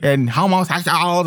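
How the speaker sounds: lightly voiced sing-song activist, a touch of mockery; mock the eager joiner, only lightly; a hint of a sneering impression. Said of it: "Black Lives Matter should not be".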